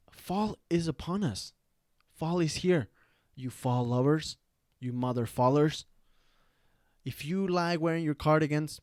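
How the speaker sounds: loud, punchy hype announcement with pauses; mock proclamation. Host announces fall to fall lovers, mock proclamation. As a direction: proclaim it to the crowd, item by item.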